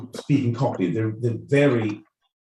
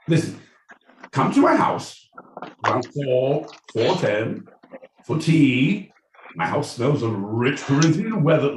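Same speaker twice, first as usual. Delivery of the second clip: hammed-up Cockney host, pitched up; mock Cockney; 3 semitones higher than usual. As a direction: invite them round in a put-on Cockney accent. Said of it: "What I'm saying, the Cockney".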